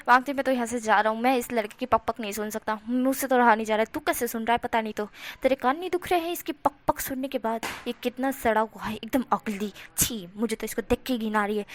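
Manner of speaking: loud, fast disgusted outburst; fed-up loud rant. Acted. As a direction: vent loudly and storm away. Wen Chao storms off disgusted.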